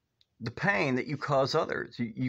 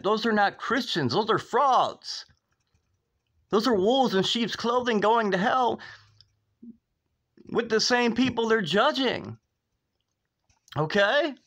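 much higher and louder, heated denunciation; fiery preaching; 9 semitones higher, 3 dB louder than usual. Real, not acted. Preacher condemning hateful churches to his viewers, fiery and loud. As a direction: thunder it from the pulpit.

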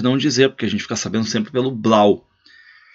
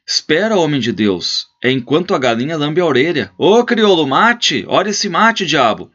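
much higher, loud call for the servant; pleading then calling out; 6 semitones higher, 3 dB louder than usual. Acted. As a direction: stop the guest, then bellow for mate. Host holding guest, calling servant.

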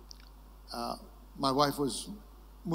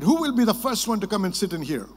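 teasing challenge; 4 semitones higher, 5 dB louder than usual. Retold or imitated. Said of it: "He said".

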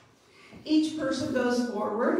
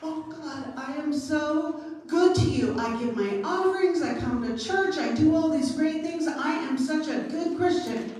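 boastful prayer; 4 semitones higher than usual. Retold or imitated. Pastor imitating a boastful man praying to God in the temple, mildly raised voice. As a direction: brag to God about your good deeds. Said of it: "he was shouting and saying".

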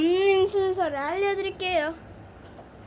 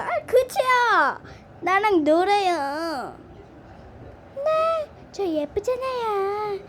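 slow, high and louder cutesy coaxing; cutesy toy voice; 4 semitones higher, 3 dB louder, slower than usual. Pretend. Toy coaxing viewers to play, cutesy. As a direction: coax them to play, all cute.

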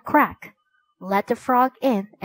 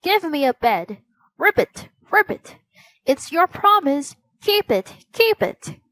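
croaking frog voice; 6 semitones higher than usual. A narrator's reading. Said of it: "the frog began to croak again".

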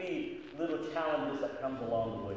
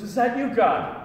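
hopeful call; 9 semitones higher, 10 dB louder, slower than usual. Acted. Man hopeful to heaven.

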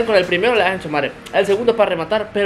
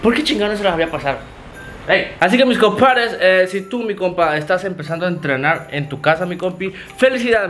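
too loud, headphones on. Real, not acted. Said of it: "con razón escucho o estoy gritando, traigo audífonos".

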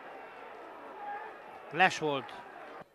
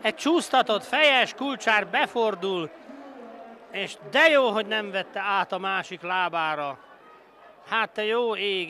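excited commentary; 3 semitones higher, 3 dB louder than usual. Real, not acted. Replay after goal.

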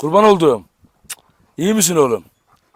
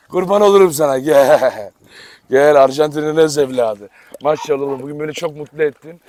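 petting the dog; 3 semitones lower than usual. Real, not acted. Sevgiyle köpeğini seviyor.

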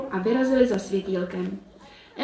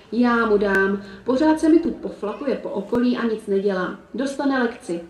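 determined grumble. Acted. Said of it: "bručela odhodlaně".

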